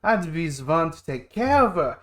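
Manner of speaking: put-on German-accented older brother. Brother recalling their absent dad, in a German accent. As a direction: tell the grievance in a German accent. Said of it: "Why am I German?".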